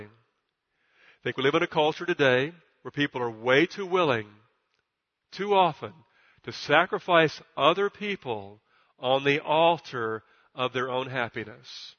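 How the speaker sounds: slow, deliberate, every word spaced out; slow and clear. Shown as a demonstration. Pastor repeating his key sentence to the congregation, slow and clear. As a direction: lay out each word so nobody misses one. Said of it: "I'll say it again very slowly and very clearly".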